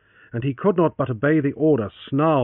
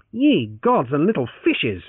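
exclaiming; 4 semitones higher, 4 dB louder, slower than usual. Acted. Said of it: "Francis exclaimed".

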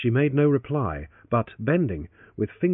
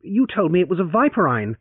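louder retort, YOU stressed; 7 semitones higher, 5 dB louder than usual. Acted. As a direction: throw it back at her on "You". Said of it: "he retorted".

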